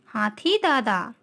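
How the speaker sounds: slow, stretched-out poem title; children's poem recitation. Shown as a demonstration. Teacher has children repeat the elephant poem, slow recitation. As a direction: lead the class word by word, slowly.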